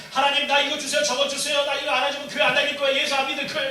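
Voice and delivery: mock a spoiled child bargaining with God; preacher mimicking an immature believer, loud and high; demanding child.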